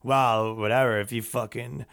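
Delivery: put-on low, soft drunken mumble; lightly voiced mumbling drunk; drunk muttering. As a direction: slur it like a hammered buddy. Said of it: "muttering to himself".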